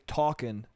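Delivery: "talking" with a dropped final G. Shown as a demonstration. Comic showing his own speech habit, "talking" with dropped G. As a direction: say "talking" casually, ending in N not NG. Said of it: "I'll drop some G's".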